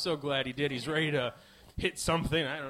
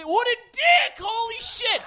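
mock outrage; 12 semitones higher, 5 dB louder than usual. Mocking himself for being shitty.

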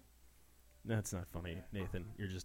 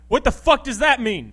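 loud, higher dude-bro outburst; 7 semitones higher, 10 dB louder than usual. Acted. Bro demanding his buddy explain himself, loud. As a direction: bark it like a meathead bro. Bro character shouting at partner.

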